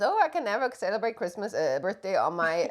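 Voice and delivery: mock whining partner; lightly put-on whiny voice; whiny imitation. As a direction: imitate her complaining about her birthday. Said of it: "So she always whines".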